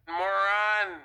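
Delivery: "moron" spat out loud, falling hard at the end; angry insult. Retold or imitated. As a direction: bark "moron" like a final insult. Insult word thrown at gangbanger.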